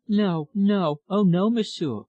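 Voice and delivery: high, eager, insistent refusal. A narrator's reading. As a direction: protest eagerly, pitched well up. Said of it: "she said eagerly".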